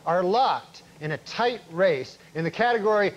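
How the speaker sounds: deadpan newscast delivery; news anchor read. Acted. Comic anchor reporting on Oscar night, news read. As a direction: announce it like the evening news.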